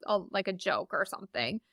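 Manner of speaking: soft, pleading denial of bad news; dread plea. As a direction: beg quietly that it is not true. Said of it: "you're just like".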